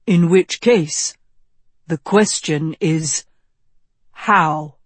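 a touch of a mentor's measured, emphatic delivery; lightly voiced wise wizard. Wizard challenging the young king about the sword, lightly voiced mentor. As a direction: press the point as the old wizard, lightly.

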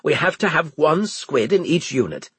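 high, firm commanding tone; stern officer voice. Acted. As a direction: lay down the order. Winslade voiced.

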